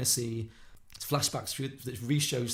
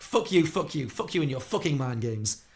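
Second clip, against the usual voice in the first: loud, higher acted cursing; mock rage, each curse punched out; furious; 4 semitones higher, 7 dB louder than usual. Harry cursing Perry's mind games, furious. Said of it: "So Harry's just furious".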